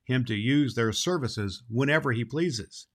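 put-on lively storybook reading for children; story narration. A narrator's reading. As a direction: read it like a children's radio story. Santa reads a storybook chapter aloud.

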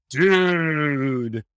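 long drawn-out mock divine "dude"; booming-heavens parody. Joking about how God talks, drawn-out mock heavenly call. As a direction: stretch it out like a jokey voice from the clouds. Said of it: "an invisible voice going".

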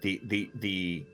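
alarmed, stammering uh-oh; nervous stuttering lawyer. Acted. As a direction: caught off guard, stumbling. Lawyer lists the charges.

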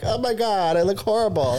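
high, mock-horrified wail; hammed-up horror at your own reflection; mock dismay. Telling friends how she reacts to crying, high mock dismay. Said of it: "and I'm like".

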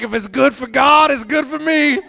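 high, loud laughing voice; real laughter. Real, not acted. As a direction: laugh through the words. Laughing retelling friend.

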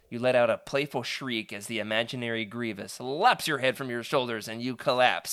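usual speaking voice

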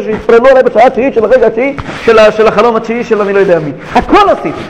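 lightly voiced self-satisfied believer; mildly smug self-listing. A Jew before Neilah boasting his deeds, mildly smug. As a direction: list your good deeds with mild smugness. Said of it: "שיהודי נעמד ואומר".

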